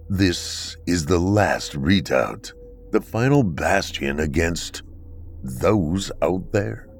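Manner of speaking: slow, cold and measured guardian; a lightly voiced grim keeper, speaking slowly; stern bunker dweller. Akron's slow, measured replies.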